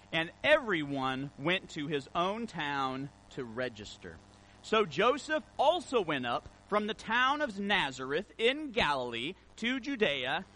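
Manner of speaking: lightly formal reading voice; scripture reading. Acted. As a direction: read the passage to the congregation. Reads scripture passage.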